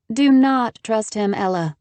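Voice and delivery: slow, high, stern warning; severe. Acted. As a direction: warn her sternly. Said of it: "Haven said severely".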